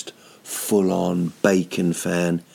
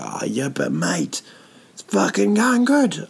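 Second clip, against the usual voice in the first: imitating himself swearing; 10 semitones higher than usual. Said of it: "I go".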